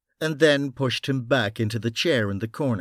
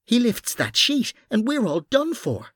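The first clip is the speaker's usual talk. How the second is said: tense, raised Irish man's voice; urgent gruff Irish cop; Irish detective voice; 11 semitones higher than usual. Acted. Bunny's worried warning.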